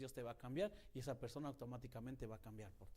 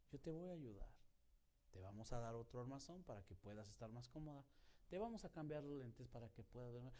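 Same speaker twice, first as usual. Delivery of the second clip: muy tranquilo; 5 dB quieter than usual. Retold or imitated. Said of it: "bien tranquilo".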